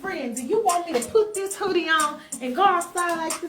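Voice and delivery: high, melodramatic complaint; hammed-up betrayed friend; wounded protest. The speaker feels betrayed by her friend's order, wounded protest.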